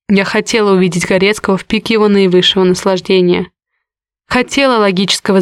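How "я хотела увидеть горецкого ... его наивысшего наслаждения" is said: usual speaking voice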